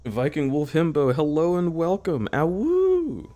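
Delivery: high announcer intro, then howl; wolf voice. Pretend.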